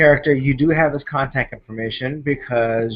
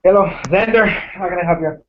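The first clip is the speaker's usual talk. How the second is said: bright phone greeting; 6 semitones higher, 5 dB louder than usual. Acted. GM voices Xander on phone.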